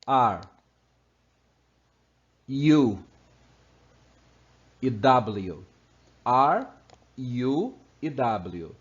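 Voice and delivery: R, U and W called out loud in English; loud letter demo. Shown as a demonstration. Teacher presenting three tricky letters, loud clear demo. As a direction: announce each letter loudly and clearly. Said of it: "Três letrinhas que muitas vezes as pessoas pronunciam".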